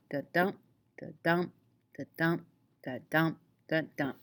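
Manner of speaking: five separated "da-dump" pulses, "dump" stressed; weak "da", strong "dump", like a metronome; iambic beat. Shown as a demonstration. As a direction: beat out "da-dump" evenly with a gap after each. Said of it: "a line of iambic pentameter has ten syllables".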